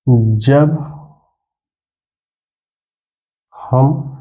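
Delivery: word by word with long pauses; teacher dictating slowly, pausing between words; slow dictation. Shown as a demonstration. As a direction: dictate the definition slowly for notes. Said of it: "परिभाषा अब यह क्या निकल कर आएगी".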